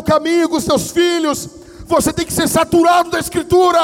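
loud, high-pitched preacher shout; full-force preaching. Real, not acted. Preacher urging the congregation into Scripture, full-force shout.

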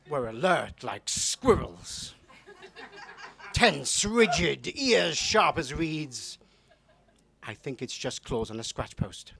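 poet reading an erotic poem to the room; poem performance. Acted.

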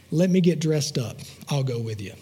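lightly acted, low giving-in; subdued, low agreement; quiet consent. Friend gives in quietly.

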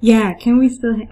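tentative put-on English accent; fake English accent. Reader testing Sonny's new voice, fake English accent. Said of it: "Can I give him an Engli".

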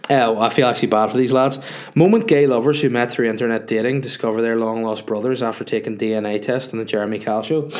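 stuffy nose from a cold; sniffly, bunged-up cold voice; sniffling from a cold. Real, not acted. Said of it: "Sorry about my sniffling and snuffling, it's just the cold".

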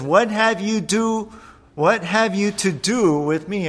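hint of a startled demon; demon's outcry. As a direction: voice the demon pushing back. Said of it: "first he says".

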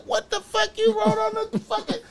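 high, loud protest breaking into laughter; indignant disbelief. Retold or imitated. Client disputes court date with defender, indignant. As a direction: act out an incredulous, high-pitched objection.

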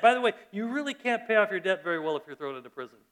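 usual speaking voice

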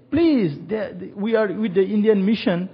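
a touch of tearful pleading; crying pastor. Retold or imitated. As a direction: beg through tears for the family. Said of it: "He was crying me".

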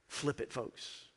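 breathy whispered aside. Real, not acted. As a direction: whisper it to the room. Hushed aside to the congregation.

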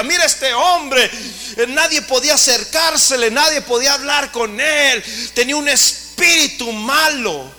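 high, loud full-force sermon; fiery preaching. Acted. Preacher proclaiming Jesus' miracles to the congregation, fiery and loud. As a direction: preach it to the back row.

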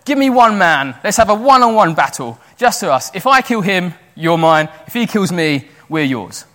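loudly retold battle challenge; Goliath's challenge. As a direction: throw down a duel, loud and punchy. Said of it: "Goliath has just said".

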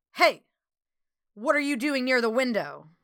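a hint of gruffness, sharp opening call; older gruff voice. A narrator's reading. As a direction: challenge them like a gruff older man. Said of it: "said an older, gruff voice".

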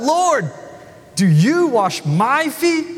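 high, slow startled question; Peter, surprised, blurts it out; blurting Peter. Acted. Peter blurts at Jesus washing his feet, high and startled. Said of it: "Peter blurts out".

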